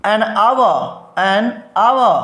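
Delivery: "an hour" said "an aua", no h sound; silent h. Shown as a demonstration. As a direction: say "hour" like "our", with no h. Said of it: "और क्या करा है इसके अलावा".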